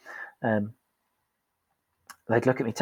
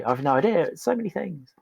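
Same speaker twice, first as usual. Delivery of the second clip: overwhelmed; 6 semitones higher than usual. Retold or imitated. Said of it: "And they'd say".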